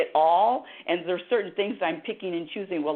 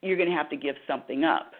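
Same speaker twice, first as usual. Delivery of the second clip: dramatic universe voice; 3 semitones lower, faster than usual. Acted. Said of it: "I'm actually adding to the drama".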